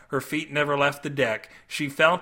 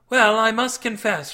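higher, louder ship maiden voice; Cindy; 7 semitones higher, 5 dB louder than usual. A narrator's reading. Maiden confessing to her rescuer, high voice. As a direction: voice the enchanted maiden, pitched high. Character dialogue in narrated story.

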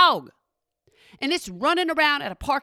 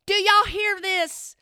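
delighted disbelief; 8 semitones higher, 3 dB louder than usual. Real, not acted. Marveling at the dog's name.

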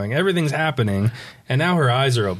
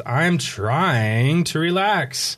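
slow, strained insistence, raised pitch; angry; 4 semitones higher, much slower than usual. Acted. Angry girl answering the bee that interrupts her, exasperated. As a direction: drag out the words, mildly exasperated. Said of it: "she's angry".

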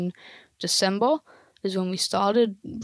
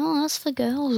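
mock teasing; 6 semitones higher than usual. Quoting mocking peers.

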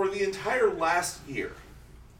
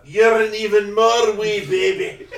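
laughing tease; 5 semitones higher, 13 dB louder than usual. Real, not acted. Teasing the youngest, laughing.

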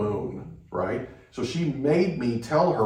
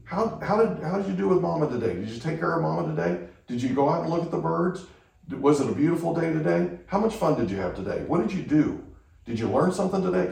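put-on higher, lively questions like talking to a little kid; dad chatting with his toddler, bright and eager; 4 semitones higher than usual. Shown as a demonstration. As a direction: coax a small child with cheerful questions. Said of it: "But ask him".

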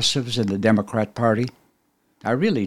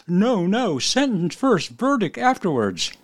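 much higher, shrill-edged royal decree; mad Queen of Hearts; 10 semitones higher than usual. A narrator's reading. Host voicing the raging Queen of Hearts at the trial, high and imperious. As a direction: screech it out like a tyrant queen. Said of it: "the mad Queen of Hearts decrees".

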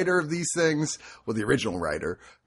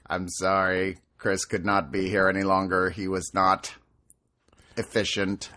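even machine voice, lower pitch; robot voice; 5 semitones lower than usual. Pretend. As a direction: answer like a polite robot assistant. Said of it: "Japanese innovation".

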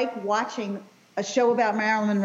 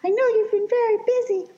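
Marilyn Monroe; 11 semitones higher than usual. Retold or imitated. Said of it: "And she's like".

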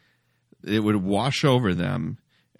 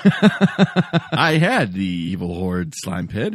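slow, drawn-out ad announcer voice; hammed-up toy ad announcer, stretched out; toy commercial; 2 semitones lower, 4 dB louder, much slower than usual. Echoes the toy commercial clip.

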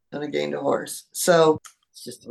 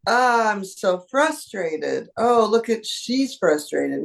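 slow frustrated dog voice; 4 semitones higher, slower than usual. Pretend. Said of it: "and then recognize".

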